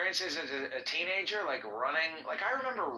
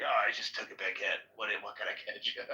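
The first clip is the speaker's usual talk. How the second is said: stoned farmer; 5 semitones lower, faster than usual. Retold or imitated. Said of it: "He's like".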